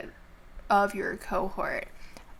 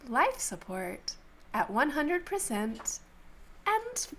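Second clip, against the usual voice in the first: softer, measured system voice; intercom announcement; 4 dB quieter than usual. Acted. Intercom warns passengers about life support, measured announcement. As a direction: announce it evenly, drawing out the end. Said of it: "the intercom comes".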